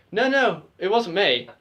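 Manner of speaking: quick-to-deny innocent act; innocent denial. Retold or imitated. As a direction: protest as if wrongly accused. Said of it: "they thought I was so innocent".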